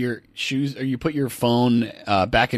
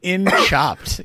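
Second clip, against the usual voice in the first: laughing; 8 semitones higher, much slower than usual. Real, not acted. Laughing while joking.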